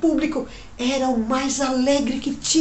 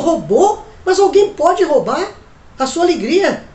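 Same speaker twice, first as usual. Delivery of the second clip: raised, astonished question; surprised girl; 4 semitones higher, 5 dB louder than usual. Acted. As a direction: sound amazed anyone could steal it. Menina surpresa pergunta. (menina surpresa)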